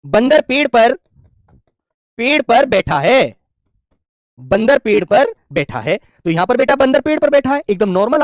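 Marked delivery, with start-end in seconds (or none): 0.0-6.0 slow, phrase by phrase with pauses; slow dictation. Shown as a demonstration. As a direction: dictate it for the class. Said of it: "एक वाक्य मैंने और लिखा आपके सामने".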